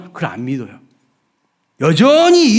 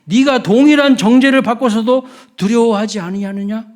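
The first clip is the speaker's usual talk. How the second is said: stern scriptural rebuke, mildly raised; rebuking; 4 semitones higher than usual. Acted. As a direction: reproach him as if reading out a judgment. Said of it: "꾸짖어 이르되".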